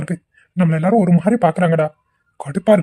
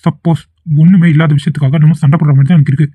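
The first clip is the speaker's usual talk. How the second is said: dismissive brush-off; 4 dB louder than usual. Acted. Boyfriend dismissive and loud.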